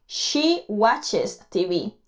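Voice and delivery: slow, careful teacher model; slow English demo line; slow model sentence. Shown as a demonstration. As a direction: spell out each word slowly for learners. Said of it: "le vamos a añadir E S al verbo".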